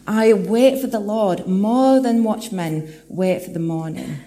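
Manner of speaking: slow building proclamation; proclaimed verse. Acted. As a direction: lift the verse up to the congregation. Psalm verse proclaimed, then echoed.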